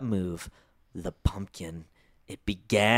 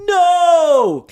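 high, loud scream of "No!"; loud cry; 14 dB louder than usual. Acted. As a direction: shriek it, not a whisper. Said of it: "Brenda cried in a choked whisper".

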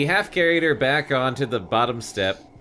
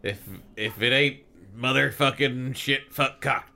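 Deadwood cowboy. Retold or imitated. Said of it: "It's just us going like".

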